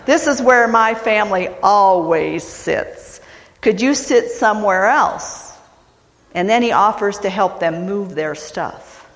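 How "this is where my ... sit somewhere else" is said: lightly voiced courteous request; Hank, polite. Texan asks a family in his seats to move, mildly polite. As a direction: ask courteously, with a hint of Texas accent. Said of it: "And Hank says politely".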